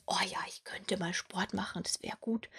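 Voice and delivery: half-hearted inner voice. Pretend. Imagined inner voice, half-hearted resolve.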